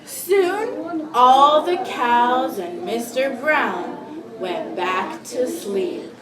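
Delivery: slow, deliberate storybook reading; read-aloud to children. Acted. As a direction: read slowly to a class of young children. Teacher reads picture book aloud.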